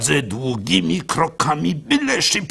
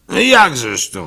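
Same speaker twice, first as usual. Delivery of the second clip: rabbi surprised; 5 semitones higher, 6 dB louder than usual. Acted. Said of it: "mówi".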